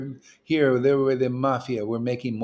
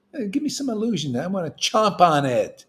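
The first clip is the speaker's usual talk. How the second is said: higher, fast, hungry challenge; eager boast; 4 semitones higher than usual. Acted. Preacher daring illusion to come, eager fast higher boast. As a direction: grab at it like breakfast.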